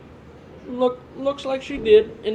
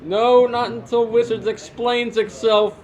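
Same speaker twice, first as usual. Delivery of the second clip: put-on cranky old man; 4 semitones higher, 3 dB louder than usual. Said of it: "Time to go home, Grandpa".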